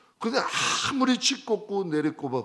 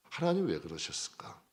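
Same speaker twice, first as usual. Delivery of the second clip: usual speaking voice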